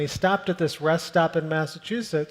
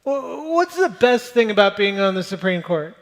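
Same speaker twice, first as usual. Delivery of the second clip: louder, higher stranger calling out; stranger calling after; 4 semitones higher, 5 dB louder than usual. Retold or imitated. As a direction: shout the parting question after him. Stranger calls after the justice.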